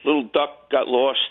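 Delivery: ordinary talk, nothing marked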